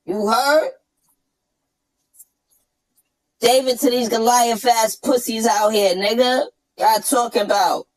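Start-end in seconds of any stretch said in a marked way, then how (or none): 0.0-4.6 chipmunk voice. Shown as a demonstration. Showing the switch back into the chipmunk voice, yelling. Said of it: "come out of nowhere like this, watch".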